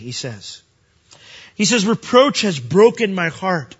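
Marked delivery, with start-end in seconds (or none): 1.9-3.8 loud slow preaching. Acted. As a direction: proclaim "Reproach has broken my heart" louder and slower, declaring it. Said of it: "these are the Lord's thoughts himself".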